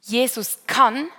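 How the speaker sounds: "Jesus kann" said slowly and firmly, rising on "kann"; a slow, certain claim; confident. Shown as a demonstration. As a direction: state it as a sure promise. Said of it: "wir wechseln von".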